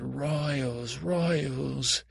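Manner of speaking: drawn-out, imitating the name-caller; mock name-calling. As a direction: stretch each word in a swooping mimicry. Quotes the name-calling back.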